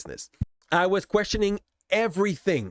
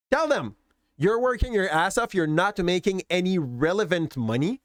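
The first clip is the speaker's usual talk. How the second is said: urgent inner voice; 3 semitones higher than usual. Retold or imitated. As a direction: urge it, then settle. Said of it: "a hitch that was telling me".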